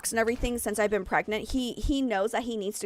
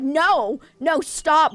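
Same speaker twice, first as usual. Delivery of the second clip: mock plea; 5 semitones higher, 6 dB louder, much slower than usual. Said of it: "he started going, like".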